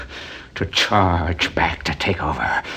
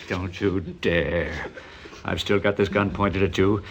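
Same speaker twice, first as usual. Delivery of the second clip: quiet threat; 5 dB quieter than usual. Acted. Threatening wife with a gun.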